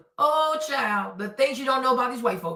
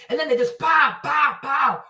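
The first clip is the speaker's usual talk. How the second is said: mock gunshots. Imitating gunshots while telling about cats, pow pow pow. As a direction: bark out the pow pow like shots.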